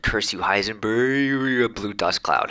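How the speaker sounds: drawn-out, rising mock curse; cartoon villain curse. Reading a commenter's Heisenberg curse aloud, mock villain wail.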